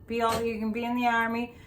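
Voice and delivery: quick, upbeat recruiting slogan read; army ad slogan. Retold or imitated. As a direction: rattle it off like a TV army ad. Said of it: "which is an army ad".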